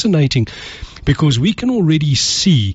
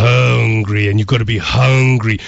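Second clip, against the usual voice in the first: imitating a deep baritone motivational speaker, lightly done; Les Brown. Quoting a motivational speaker to the radio host, lightly imitated deep baritone. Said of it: "he uses that deep baritone voice and he says".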